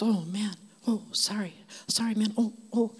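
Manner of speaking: meek apology. Retold or imitated. Intimidating big guy says sorry to an angry stranger, meekly.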